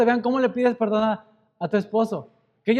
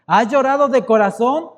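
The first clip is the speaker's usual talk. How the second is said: pushed up and louder, pleading; louder emphatic plea; 5 semitones higher, 5 dB louder than usual. Real, not acted. Preacher pressing his congregation, loud pleading question. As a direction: hit the question hard, pleading.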